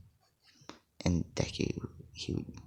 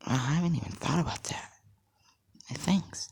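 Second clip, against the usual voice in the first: higher-pitched, lightly amazed thanks; pleasant surprise; 9 semitones higher than usual. Acted. Scarlet Witch thanks Deku for new ideas, pleasantly surprised. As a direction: lift the pitch in mild amazement. Heroine's revised surprised reply, acted.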